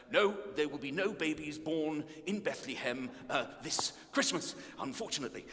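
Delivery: measured, lightly voiced prime minister; a hint of a politician breaking regretful news; Prime Minister impression. Prime minister character announces no Christmas births, lightly impersonated. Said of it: "trying to impersonate the Prime Minister".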